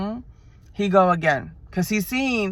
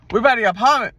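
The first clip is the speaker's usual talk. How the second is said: Atlanta accent attempt; 3 semitones higher, 5 dB louder, faster than usual. Shown as a demonstration. Trying to sound Atlanta to her listeners, first Atlanta take. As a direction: sound ATL, but slip on apartment. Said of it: "No, I said it wrong".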